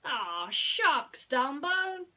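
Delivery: high, bright little mouse voice; squeaky high mouse greeting his friend; Timothy the mouse. Acted. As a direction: play a tiny cheerful mouse.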